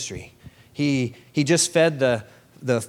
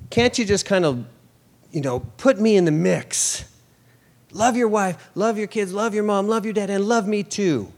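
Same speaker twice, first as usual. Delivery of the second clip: higher, pleading mock version of Jesus; softened Jesus; 6 semitones higher than usual. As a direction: plead sweetly, as the gentle Jesus we wish for. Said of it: "Couldn't he have said".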